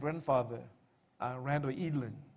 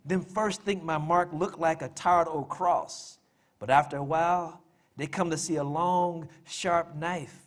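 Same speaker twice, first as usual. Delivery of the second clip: measured poem reading in a widow's persona; dramatic monologue read as verse; poem recital. Acted. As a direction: recite it line by line, with weighted stresses and pauses. Reads his poem aloud.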